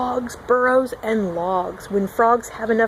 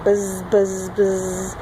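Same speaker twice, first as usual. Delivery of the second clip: frog buzz; 4 semitones lower, much slower than usual. Shown as a demonstration. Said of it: "That's what he sounds like".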